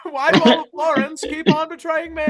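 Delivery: whiny standup complaint; mock comedian whine. Stannis voiced as comedian.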